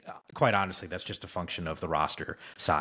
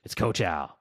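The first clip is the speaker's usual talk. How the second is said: bad impression of a coach's voicemail; hammed-up coach checking in by phone message; Coach Aliotti. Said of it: "worst Coach Aliotti impression".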